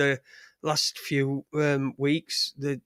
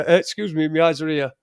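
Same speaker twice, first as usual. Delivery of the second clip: mock woman's rebuke; 4 dB louder than usual. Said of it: "like a woman would do... and you go".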